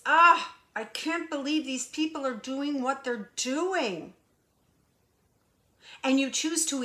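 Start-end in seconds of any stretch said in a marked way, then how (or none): 0.1-4.2 loud exasperated "Ah", then mild disbelief; mock exasperation. Voicing a reader reacting to people out of alignment, mock exasperated. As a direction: act out someone appalled at other people. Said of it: "and you get this".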